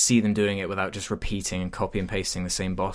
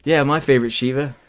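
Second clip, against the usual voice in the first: higher, louder mock fan voice; raised-pitch impression of a contrarian fan; internet commenter; 5 semitones higher, 7 dB louder than usual. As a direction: imitate a commenter piping up loudly. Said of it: "that one guy who comes on the comments".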